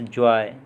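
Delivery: जॉय gliding into a "y" sound; OY diphthong. Shown as a demonstration. Teacher giving an OY example, gliding vowel in जॉय. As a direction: glide the vowel of जॉय towards "ee". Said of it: "आय की तरह".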